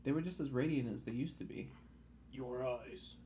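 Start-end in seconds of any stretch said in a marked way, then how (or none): 2.3-3.1 soft mumble; mumbled. Acted. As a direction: mumble it, half awake. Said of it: "I mumbled".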